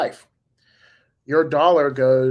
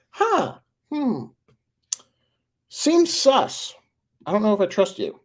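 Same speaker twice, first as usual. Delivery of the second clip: much higher, drawn-out skeptical hum; high, wary "seems sus" voice; suspicious citizen; 8 semitones higher, slower than usual. Pretend. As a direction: play the doubter who smells a trap, pitched way up. Imagined citizen doubting CBDC promise.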